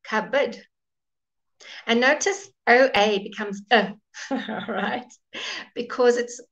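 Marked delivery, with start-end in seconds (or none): 0.0-0.6 "Cupboard" said CUB-ud, no P; silent P. Shown as a demonstration. Teacher models cupboard for students, silent P. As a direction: drop the P in "Cupboard", weak second syllable. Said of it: "There's no P".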